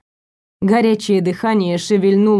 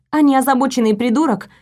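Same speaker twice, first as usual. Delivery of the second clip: usual speaking voice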